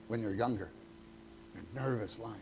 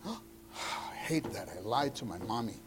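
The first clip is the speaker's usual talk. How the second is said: put-on remorseful child; 2 semitones lower, 4 dB quieter than usual. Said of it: "did you ever realize".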